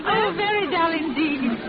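amused, slowing at the end; laughing. Acted. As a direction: laugh it off teasingly. Laughing at the joke.

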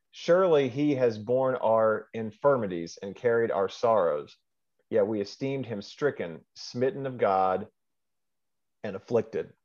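measured Bible reading aloud; scripture reading. Real, not acted. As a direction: read the verse out phrase by phrase.

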